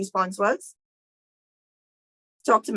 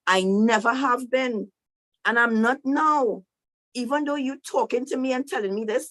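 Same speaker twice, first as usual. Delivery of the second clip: protesting Moses; 5 semitones higher than usual. Retold or imitated. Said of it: "this is Moses talking to God".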